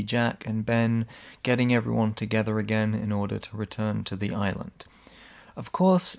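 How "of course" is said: high, rising sarcastic of course. Real, not acted. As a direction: toss it off with irony. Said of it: "of course (contrast)".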